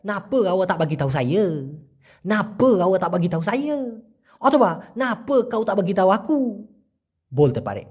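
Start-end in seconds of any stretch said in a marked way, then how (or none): 0.0-3.8 everyday Malay, "Napa" said as "nape"; casual Malaysian speech with drawn-out "saye"; colloquial Malaysian accent. Shown as a demonstration. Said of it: "মালয়েশিয়ানরা এইভাবে বলে". 5.0-6.4 casual Malay with a long "aku"; everyday Malaysian, "Napa" as "nape"; colloquial Malaysian accent. Shown as a demonstration. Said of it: "মালয়েশিয়ানরা এইভাবে বলে".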